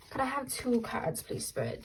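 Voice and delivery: breathy whisper, barely voiced; whispered plea. Real, not acted. Whispering to Spirit while asking for two cards.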